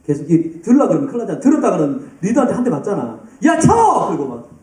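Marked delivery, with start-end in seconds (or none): 3.4-4.1 mock shout. Drummer yelled at by leader.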